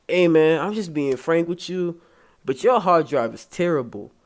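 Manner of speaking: lightly put-on Hispanic accent; imitated Hispanic accent. Computer repair guy being frank with customer, imitated Hispanic accent. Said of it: "I'ma do an accent".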